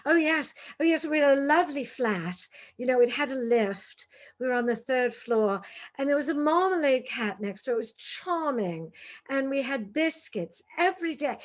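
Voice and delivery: lightly put-on English accent; affected English accent. Returned London tourist bragging about the flat, affected English accent. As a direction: play up a borrowed English accent. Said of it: "they're in London for two weeks".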